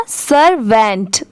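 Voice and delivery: सर्वेंट slowly as 'sur-vent'; careful, measured सर्वेंट; two-part pronunciation. Shown as a demonstration. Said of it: "दोनों मिला देंगे तो क्या हो जाएगा".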